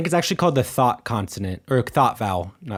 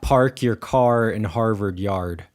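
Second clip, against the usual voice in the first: Boston accent; slower than usual. Shown as a demonstration. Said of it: "my Boston accent is horrible".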